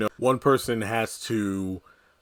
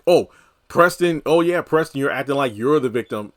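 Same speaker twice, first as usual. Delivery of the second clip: high, louder sarcastic "oh, Preston"; mocking Danny; 3 semitones higher, 5 dB louder than usual. Imitating Danny sneering at Preston, mock sarcasm. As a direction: sneer it back at him. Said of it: "said that in her mind".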